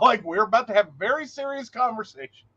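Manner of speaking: amused, laughter breaking around the words; laughing. Real, not acted. Recalling a misread joke from a brother, laughing. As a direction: talk through a chuckle. Laughing through the retold reaction.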